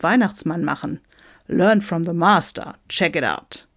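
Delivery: lightly voiced emphatic showman; brash American Santa. Santa from Michigan defends being real, brash. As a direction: brag forcefully about your credentials.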